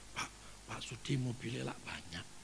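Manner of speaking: whisper. Retold or imitated. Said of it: "bisik-bisik".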